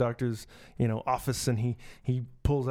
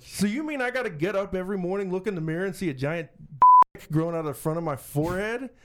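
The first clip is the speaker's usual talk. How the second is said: a bit higher, mild disbelief; horrified patient; 6 semitones higher, 3 dB louder than usual. Acted. Patient to doctor, mildly shocked and a bit higher. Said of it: "And the guy's like".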